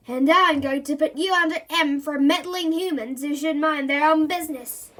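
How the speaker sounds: loud, smug monster threat; boastful monster. Acted. Monster boasting and threatening meddling humans. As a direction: gloat like a proud bully.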